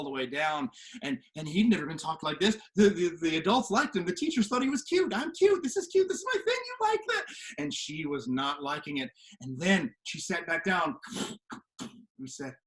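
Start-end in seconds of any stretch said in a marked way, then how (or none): 5.1-7.2 high, preening mock voice; mock-proud boy voice. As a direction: show off your cuteness. Boy mocking himself cute.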